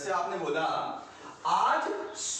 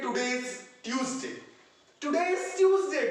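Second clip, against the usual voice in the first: wrong version, slow; 2 semitones higher, slower than usual. Shown as a demonstration. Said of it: "गलत है दोस्तों".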